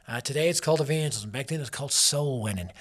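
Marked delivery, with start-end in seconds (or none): 1.9-2.7 put-on southern accent. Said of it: "I say it with a southern accent".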